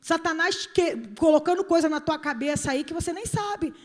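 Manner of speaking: ordinary talk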